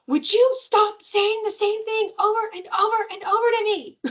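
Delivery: high, exasperated mock kid yell; imitated child yelling. Four-year-old fed up with nagging parent, high mock yell. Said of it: "my child yells".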